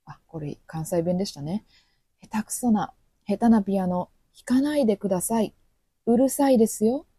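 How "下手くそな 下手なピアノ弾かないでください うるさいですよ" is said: polite complaint. Retold or imitated. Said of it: "という意味になります".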